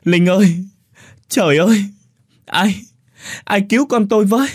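high, loud anguished cries; mother wailing for her daughter; shrieking lament, near tears. Acted. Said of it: "khóc lóc thảm thiết".

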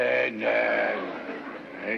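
shouted no, no, no. Acted. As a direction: cut off the accusation at once. Father denies hitting the official.

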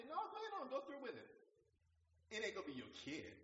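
God's voice. Retold or imitated. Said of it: "God might say".

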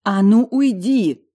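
loud, high, slow growl; growling shout. A narrator's reading. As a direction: yell him out of the room. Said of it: "прорычала я, стуча зубами".

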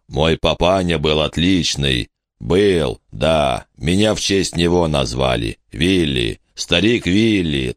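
lightly voiced giant reminiscing fondly; slow down and sink into memories; wistful giant. Giant fondly recalls his father.

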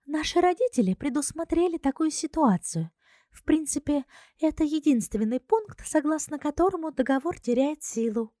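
airy princess explaining the contract; Ruaza's voice. Acted.

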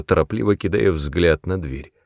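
plain reading voice

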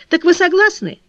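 eager, high and loud question; breathless eager asking; excited. Acted. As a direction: burst out hopefully. Eager question from flower girl.

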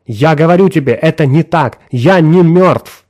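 almost shouting. A narrator's reading. Woodford insisting to his friend he is alive, almost shouting. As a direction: press it nearly to a shout. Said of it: "Вудфорд почти кричал".

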